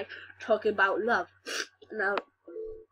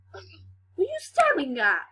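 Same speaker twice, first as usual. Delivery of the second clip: much higher and louder, laughing as it rises; squealing mock outrage; 4 dB louder than usual. Miss Mulgrew snapping at the girl, high mock shriek.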